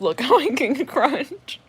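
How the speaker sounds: smug, drawn-out boast; show-off. Retold or imitated. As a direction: brag about crunching slowly. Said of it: "show off".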